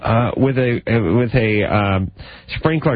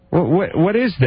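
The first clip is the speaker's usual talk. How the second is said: acting indignant wife; 6 semitones higher than usual. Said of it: "why did you say to your husband".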